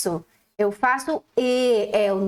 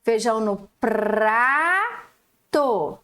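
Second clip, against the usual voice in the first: very slow "Feijão no prato", every syllable apart; much slower than usual. Shown as a demonstration. Teacher reading the rhyme slowly to the class. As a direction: drag it out syllable by syllable. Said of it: "T com O".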